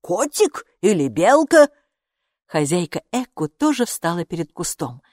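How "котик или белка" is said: put-on high, slow little girl voice; child voice. A narrator's reading. Girl asking which animal it is, childlike. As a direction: play the small girl, wondering.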